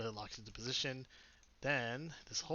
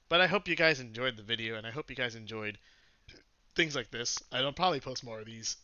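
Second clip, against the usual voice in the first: hoarse, sore throat from screaming; 7 dB louder than usual. Real, not acted. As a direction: talk through a raw, hoarse throat. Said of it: "sorry about my throat".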